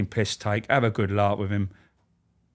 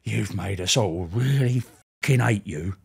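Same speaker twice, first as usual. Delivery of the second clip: slow menacing Charlie. Retold or imitated. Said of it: "He went".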